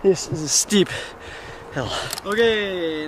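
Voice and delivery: huffing and puffing from the climb; out of breath. Real, not acted. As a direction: talk while panting up a hill. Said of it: "Sorry for the huffing and puffing".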